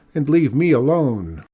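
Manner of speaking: loud, indignant send-off; woman shouting him away; angry shout. Acted. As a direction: tell him off loudly. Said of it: "shouted Mikola".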